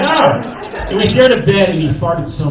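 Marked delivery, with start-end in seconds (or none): 0.0-0.9 surprised oh. Retold or imitated. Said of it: "I'm like".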